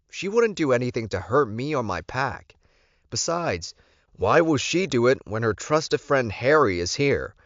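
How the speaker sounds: understated exasperation; frustrated Alpha. Acted. Alpha arguing with Lorenzo about Alyssa, firm and frustrated.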